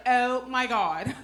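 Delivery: slow, drawn-out mock gushing; imitated impressed girl. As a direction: stretch it out like a clueless girl. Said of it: "This girl was like".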